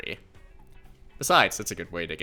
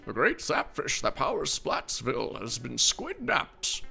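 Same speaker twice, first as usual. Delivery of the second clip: put-on grumpy old man; 2 semitones higher than usual. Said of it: "my old man voice".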